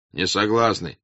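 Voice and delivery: short, restrained "Не согласны"; peasant's refusal. Acted. Peasant in the crowd refuses, fairly restrained. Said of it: "раздалось в толпе с разных сторон".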